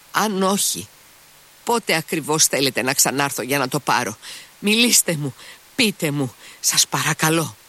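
desperate Mitya. Acted. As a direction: beg her, rising in panic.

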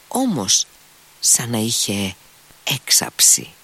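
plain reading voice

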